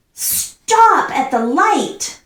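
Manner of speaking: slow, emphatic order; bossy command. Shown as a demonstration. Teacher showing the class an exclamation, bossy command. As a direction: order it bossily, leaning on each word. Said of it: "you wanna be bossy".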